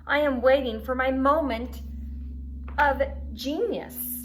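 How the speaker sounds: Unicorn's pompous line. A narrator's reading. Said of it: "said Unicorn".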